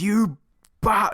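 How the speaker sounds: startled secretary cut off mid-word. Retold or imitated. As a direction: squeak it out before being cut off. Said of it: "where the secretary goes".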